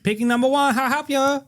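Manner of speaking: high-pitched mock Asian accent. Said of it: "who turns Asian".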